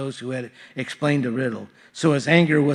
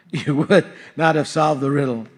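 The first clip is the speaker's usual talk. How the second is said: laughing through it; 5 dB louder than usual. Real, not acted. Laughs while reading Samson's line.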